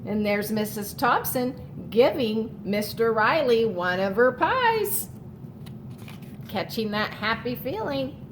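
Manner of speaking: storybook read-aloud to the class; reading to children. A narrator's reading. Teacher reading a picture book to her class, storytelling voice.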